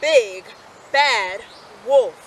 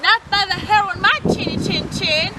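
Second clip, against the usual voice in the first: higher, louder defiant pig; pig crying out; 6 semitones higher, 6 dB louder than usual. A narrator's reading. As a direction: refuse firmly. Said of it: "cried the second little pig".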